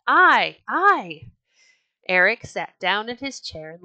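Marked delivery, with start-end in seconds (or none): 0.1-1.3 loud, high eager shouts of volunteers; rowdy crowd shouting. A narrator's reading. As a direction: yell out to be picked.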